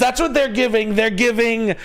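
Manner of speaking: very high, stretched-out clown voice; mock-triumphant high wail; hammed-up hype. Clowning on about rug sales.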